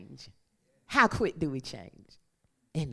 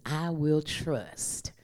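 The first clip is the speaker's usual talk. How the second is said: David's quiet vow, whispered; 4 semitones lower, 6 dB quieter than usual. Acted. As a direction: breathe it out as a prayer. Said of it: "David says".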